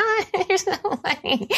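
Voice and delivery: mock laughing friends. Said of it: "they'd be like".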